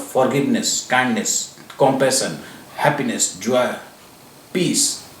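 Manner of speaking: soft, airy, unhurried list; airy breathy mystical healer. Real, not acted. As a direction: breathe each word out gently. Soft list of positive emotions.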